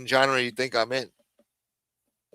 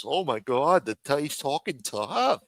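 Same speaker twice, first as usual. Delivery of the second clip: mock gossiping viewers. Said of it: "they eat it up when I talk like this".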